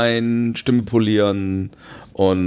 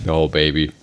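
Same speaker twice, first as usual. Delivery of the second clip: a singer's voice; 5 semitones lower than usual. Retold or imitated. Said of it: "mein großes Vorbild ist ja ein Sänger".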